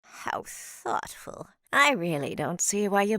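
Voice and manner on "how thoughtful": breathy, slow, sarcastic murmur; drawn out, dripping with irony; dry sarcasm. Acted. Dry witch remark.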